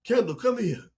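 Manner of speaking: put-on high, sharp summons to a child; stern mom calling. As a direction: call the child over like a displeased mom. Mom calls child over sharply.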